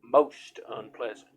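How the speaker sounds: a hint of a kindly village healer warning the hero; healer woman's voice. Healer woman continues speaking.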